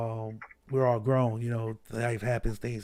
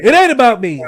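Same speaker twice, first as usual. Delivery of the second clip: loud protest; 10 semitones higher, 16 dB louder than usual. Real, not acted. Teased as podcast guru, protests.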